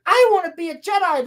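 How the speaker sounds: high-pitched mock child protest; whiny kid impression. Girl insists on joining the Jedi, mock childish. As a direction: imitate a girl insisting on her wish. Retold girl pleading her wish.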